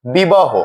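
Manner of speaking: বিবাহ ending in a clear "ho"; pronunciation demo. Shown as a demonstration. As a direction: say বিবাহ as "bibaho", falling at the end. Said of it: "ও এর মতো উচ্চারণ হয়".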